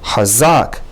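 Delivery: "hazak" with short first a, long second a; hazak, first a brief, second a drawn out; short then long a. Shown as a demonstration. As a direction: say "hazak": quick ha, stretched zak. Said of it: "the second a is longer".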